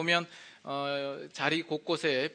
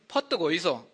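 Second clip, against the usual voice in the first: brisk Gyeongsang dialect call; 4 dB louder than usual. Shown as a demonstration. Pastor demonstrating Gyeongsang dialect, Gyeongsang call. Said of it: "경상도로는".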